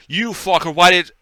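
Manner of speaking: loud, high angry yell; angry outburst. Retold or imitated. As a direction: snap at him in fury. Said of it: "you're like".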